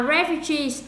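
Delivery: "refugees" slowly, stressed on "-gees"; slow model of "refugees", final syllable stressed; stress on last syllable. Shown as a demonstration. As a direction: put the weight on the end of "refugees". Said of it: "mình sẽ đặt dấu nhấn ở đây".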